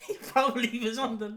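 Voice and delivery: a hint of a drunk man fumbling his speech; imitating drunk eulogist. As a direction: lightly play the sloshed speaker. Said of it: "Why do you sound so fucking drunk?".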